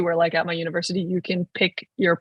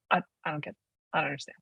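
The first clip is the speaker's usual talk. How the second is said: quiet; 3 semitones lower, 9 dB quieter, much faster than usual. Real, not acted. Exasperated aside after quote.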